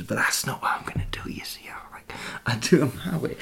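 soft unvoiced whisper; hushed ASMR talk. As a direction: whisper it close to the mic. Whispered aside.

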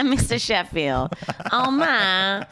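signature laugh, then the catchphrase; lightly put-on sitcom character voice; a quick, laughing go at a nasal TV nanny. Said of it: "a nanny impression".

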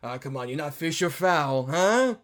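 playful impression, rising to a high, loud query; Willem Dafoe. Manager shoos cranes off the property, playful mock questioning. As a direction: imitate a manager coaxing birds, jumping up on the questions. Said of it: "especially Defoe brilliantly doing".

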